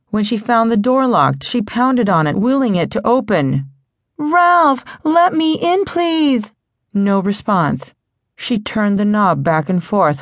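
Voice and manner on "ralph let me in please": desperate plea. A narrator's reading. Girl lost in a blizzard begs Ralph to open the door, desperate higher cry. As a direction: beg to be let in, voice pitched up.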